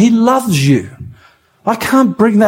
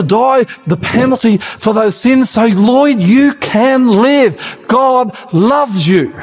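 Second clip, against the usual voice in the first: a hint of Jesus begging sinners to come home; pleading voice of Jesus. Preacher voicing Jesus inviting sinners to come to him, mild pleading. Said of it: "he comes down and he says".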